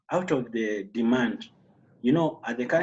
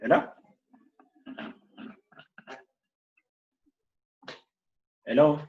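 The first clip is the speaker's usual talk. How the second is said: calling out; 11 semitones higher, 4 dB louder than usual. Real, not acted. Host calling out on bad line.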